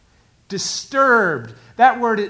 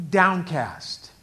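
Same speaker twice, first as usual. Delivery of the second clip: slow stretched word; 2 semitones lower than usual. Shown as a demonstration. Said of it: "the Hebrew word means despair".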